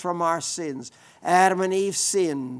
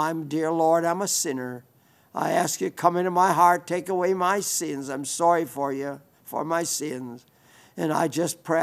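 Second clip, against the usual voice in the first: prayer; 2 semitones lower than usual. Shown as a demonstration. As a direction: model a humble prayer for others to follow. Models a sinner's prayer.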